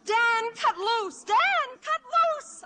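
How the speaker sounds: long shouted call upward. Acted. Mother shouting up to the flyer, calling out. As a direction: call out to him far above.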